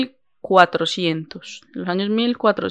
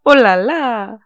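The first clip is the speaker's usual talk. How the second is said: put-on French accent; 4 semitones higher, 6 dB louder, much slower than usual. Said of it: "ya el acento francés".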